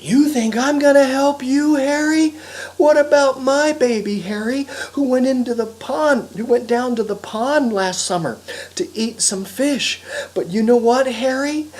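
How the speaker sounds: high, loud indignant raccoon; aggrieved mother raccoon. Acted. Mother raccoon reproaches Harry over her baby, high indignant voice. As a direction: throw the accusation back in a high voice.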